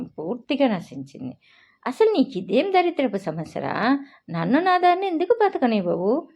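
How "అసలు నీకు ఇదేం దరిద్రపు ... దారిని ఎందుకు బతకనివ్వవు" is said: higher, exasperated angry outburst; furious shout. A narrator's reading. Tanvi screams at Reyansh blocking her way, furious. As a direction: lose all patience and throw it in his face. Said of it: "ఒళ్ళు తెలియని కోపంతో అతని ముఖం మీద గట్టిగా అరిచేశాను".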